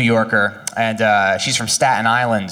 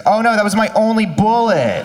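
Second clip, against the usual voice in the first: high, whiny oh no; dismayed gunman; 8 semitones higher than usual. Retold or imitated. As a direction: suddenly let down. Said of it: "the guy's like".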